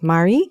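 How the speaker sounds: "Mari" as MAH-ree; "Mari" clearly, ah then ee; correct pronunciation. Shown as a demonstration. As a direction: say "Mari" with an open ah first. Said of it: "the correct way to pronounce is".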